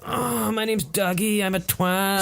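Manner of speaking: high, slow mock Scottish-Australian accent; muddled Scottish-Australian accent. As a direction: put on a wobbly Scottish-Australian hybrid accent. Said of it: "Scottish and Australian are quite magnetic as accents".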